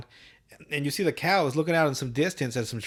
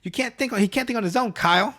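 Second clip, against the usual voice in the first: high, loud, laughing scolding father; getting louder; 9 semitones higher, 4 dB louder than usual. Retold or imitated. Boy mimicking his father, scolding louder and laughing. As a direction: ramp up the nagging into a shout. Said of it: "he starts getting louder".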